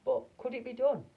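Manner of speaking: very high, loud character voice; hammed-up high astonished voice; high squeaky voice. A narrator's reading. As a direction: squeak it out in alarm. Wonka and Mike, high voices.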